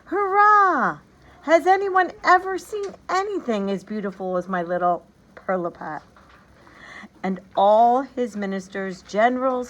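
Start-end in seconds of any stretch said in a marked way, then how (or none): 0.1-6.0 high, loud cheering king; overjoyed king shouting to the court; joyful shout. A narrator's reading. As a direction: cheer it out, beside himself with joy. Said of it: "shouted over and over again".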